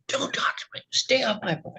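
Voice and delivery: hushed, breathy whisper with no voice; curt whisper. Retold or imitated. Father whispers to the neighbor in court retelling, hushed. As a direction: hiss the words under your breath.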